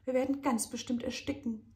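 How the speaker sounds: high, wailing panicked whine; whining. A narrator's reading. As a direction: whimper it in fear. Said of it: "jammert Charlie".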